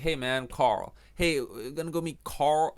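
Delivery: lightly imitated American accent. Showing Americans find the name easy, American accent. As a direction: say it like a casual American. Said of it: "If you're American, it's nice and easy".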